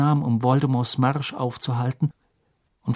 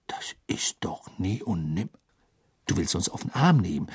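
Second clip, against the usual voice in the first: whispered; 6 semitones lower, 6 dB quieter than usual. Acted. Ron staring at the beetle in the jar, whispering. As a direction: breathe it out in disbelief. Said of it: "flüsterte Ron".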